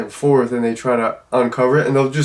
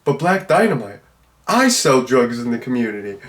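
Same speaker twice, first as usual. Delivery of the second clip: lightly voiced movie pimp objecting; Chocolate Giddy Up. Pimp objects to Black Dynamite's war on drugs, lightly acted protest. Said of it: "Just the way he delivers it".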